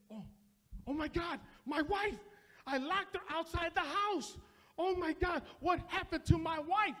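rising panic, ending in a cry; a husband suddenly afraid for his missing wife; panicked husband. Retold or imitated. Husband discovering his wife is gone, rising panicky cry.

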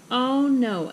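loud, mildly sobbed dismay. Acted. Girl laments ruined hairdo, mild sob. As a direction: wail it a little, no real crying. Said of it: "Ava sobbed".

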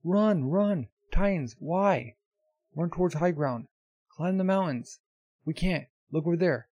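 high, loud cries of alarm; acted panic. Villagers warning each other of Titans, acted panicked shouting.

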